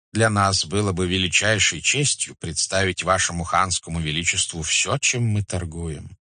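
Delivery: flattering merchant, delicately raising a complaint; deferential merchant. Acted. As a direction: tread politely before the khan. (почтительный, вкрадчивый купец)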